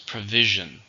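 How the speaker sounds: Provision, with VI stressed; Provision, weight on VI; stress on second syllable. Shown as a demonstration. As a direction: say Provision leaning on its middle syllable. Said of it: "Stress is on the second".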